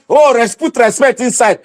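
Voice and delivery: lightly voiced mock caution; a hint of a scolding elder; quoting timid people. Ranting at viewers, quoting timid critics in a mild mock voice. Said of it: "they will not be saying".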